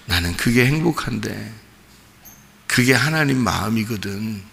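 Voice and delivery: soft, hushed, loving assurance; tender father. Retold or imitated. Father consoling his apologising son in a dream, soft and tender. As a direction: speak quietly as if holding your son. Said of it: "그런 얘기를 해요".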